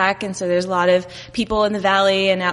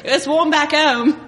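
imitated Aussie accent, slow through a laugh; Australian accent; 4 semitones higher, slower than usual. Visitor talking of back home, imitated Australian accent. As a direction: stretch it out in a put-on Australian accent. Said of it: "what if I were Australian?".

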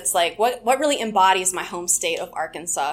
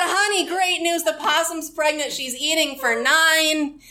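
higher-pitched imitation of a proud, confident dad; 6 semitones higher, slower than usual. Dad phoning his daughter with possum news, mock confident and proud. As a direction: announce it like a mock proud father-to-be, drawn out at the end. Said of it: "He said it with the confidence".

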